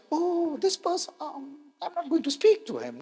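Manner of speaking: high mock huff, turning away from someone; sulking person. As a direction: play the offended friend who won't speak to him. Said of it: "A person comes to you and will say".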